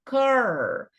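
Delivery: "car" alone, drawn out with a hard K; isolated stressed syllable. Shown as a demonstration. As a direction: model the strong first syllable "car". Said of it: "esse som aqui é o som do K".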